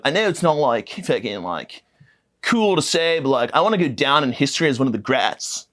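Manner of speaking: lightly voiced mocking Timothée, dreamy and self-important; a hint of a pompous young actor; perfect impression of Timothée. Comedian mocking the actor's award speech, lightly put-on voice. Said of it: "this is a perfect impression of him".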